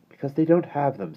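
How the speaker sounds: put-on girl voice. A narrator's reading. Jane voiced in story.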